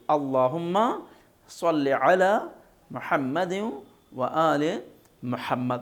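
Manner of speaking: phrase by phrase, thick saad in "صلی"; careful salawat recitation. Shown as a demonstration. Teacher showing the improved salawat, careful recitation. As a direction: clear ain in "علی", h in "محمد". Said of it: "صلی کا صاد دھیان دینا ہے".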